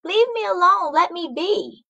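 high, scared pleading; frightened plea. Acted. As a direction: beg the stranger to go away. Frightened Macy pushes the girl away.

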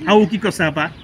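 Nalbari-accented question, shown to a learner. Shown as a demonstration. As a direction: put on a Nalbari Assamese accent. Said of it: "This is Nalbari accent".

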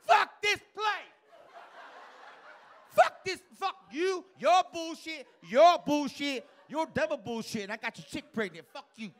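high, loud quitting rant, slow on the curses; furious yell. Retold or imitated. Comic imitating a worker quitting in a loud rage. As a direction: scream it out, storming off the job. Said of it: "They yell".

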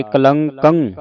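ਕਲੰਕੰ ending in a drawn "kang"; nasal ending. Shown as a demonstration. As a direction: slowly say ਕਲੰਕੰ with a nasal on the last k. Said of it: "ਕੱਕੇ ਉੱਤੇ ਟਿੱਪੀ ਲਾ ਕੇ". (ਕਲੰਕੰ ਦੇ ਅਖੀਰਲੇ ਕੱਕੇ 'ਤੇ ਟਿੱਪੀ ਦੀ ਆਵਾਜ਼)

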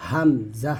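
হামজা ending in an abrupt catch; jerked sound demo. Shown as a demonstration. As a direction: say হামজা with a sudden jolt. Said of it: "হামজা জটকা আওয়াজ". (জটকা আওয়াজে হামজা)

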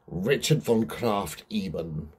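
put-on a light German accent on the name only; lightly put-on German accent, slowed; mock German accent. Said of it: "I don't know why I said it in that accent".

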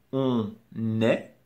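"on", pause, "est" said as "nè"; liaison. Shown as a demonstration. Teacher demonstrating liaison with être, split-syllable demonstration. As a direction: link the n onto "est" in "on est". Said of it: "la liaison".

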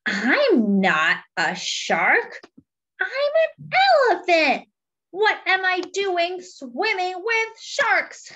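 Fred panicking among sharks, mock frightened whimper; scared elephant. Fred the elephant swimming with sharks, hammed-up fear.

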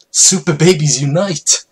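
high, loud battle cry; a team of babies rallying together. Acted. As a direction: shout it like heroes charging. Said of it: "cried the Super Babies".

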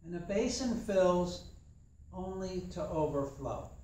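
slow, measured reading of the proverb; a calm, unhurried proverb reading; proverb recital. Shown as a demonstration. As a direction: let each word of the saying land slowly. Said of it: "Proverb is".

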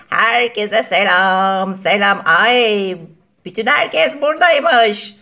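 loud, slow, booming hello to the room; too loud greeting. Acted. Latecomer bursts in greeting everyone, too loud. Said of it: "Bağırma ya".

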